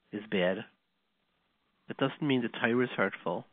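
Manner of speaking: soft, measured fatherly plea with long pauses; quietly earnest, letting each phrase settle; retold gentle reassurance. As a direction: imitate a father gently consoling his son. Father consoles his angry, upset son.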